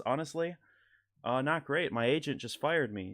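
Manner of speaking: excited Norm cadence. Retold or imitated. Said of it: "talking like he's so excited to be telling you this story".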